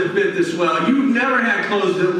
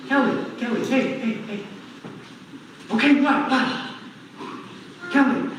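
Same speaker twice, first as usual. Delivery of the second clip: soft calling; 4 semitones higher, 5 dB quieter than usual. Retold or imitated. God calling again gently.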